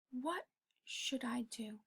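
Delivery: slow whisper, thinking to yourself; whispered question. Shown as a demonstration. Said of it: "Go into a quiet room".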